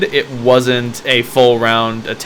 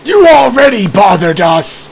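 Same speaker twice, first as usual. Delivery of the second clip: dusty mummy rasp; 6 semitones higher than usual. Acted. GM voices mummy arguing.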